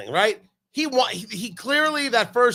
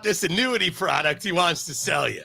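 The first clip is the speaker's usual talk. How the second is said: Chris Collinsworth essence. Retold or imitated. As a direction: pitch it like a chipper announcer selling annuities. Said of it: "I have the essence of the man".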